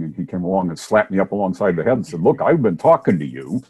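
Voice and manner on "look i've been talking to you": emphatic, mildly exasperated voice of God; God done whispering. Acted. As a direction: get through to a poor listener, firmly. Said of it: "God got through whispering".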